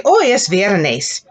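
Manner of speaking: slow and clear, each word apart; slow repeat-after-me model; slow model sentence. Shown as a demonstration.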